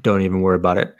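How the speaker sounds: lightly voiced suave spy, barely changed; James Bond impression. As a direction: toss it off like a cocky James Bond. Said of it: "That's my James Bond impression".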